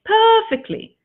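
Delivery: high, loud burst on one word; excited emphasis. Real, not acted. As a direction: throw the word up with delight. Repeats perfectly with emphasis.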